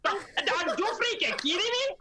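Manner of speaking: Venezuelan accent impression. Mother imitating a Venezuelan rally woman's accent for the panel. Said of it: "obsessed with her accent".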